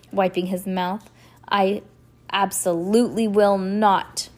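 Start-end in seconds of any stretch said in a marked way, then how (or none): 1.5-4.3 emphatic, deliberate refusal; firm refusal. A narrator's reading. Banker refusing to allow the count's claim, firmly. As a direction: put your foot down, louder on each key word.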